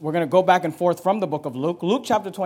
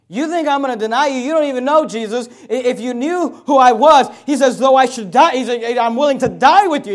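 higher and louder, offended pride; indignant protest; 3 semitones higher, 6 dB louder than usual. Acted. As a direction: argue back at Jesus, stung. Peter indignantly answering Jesus.

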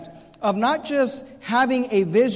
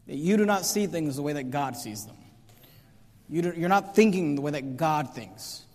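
lower, softer, sober reproof; hushed verdict; 6 semitones lower, 6 dB quieter than usual. Acted. Preacher privately judging how Christians think, hushed and grave. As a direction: drop down low and soft to land it.

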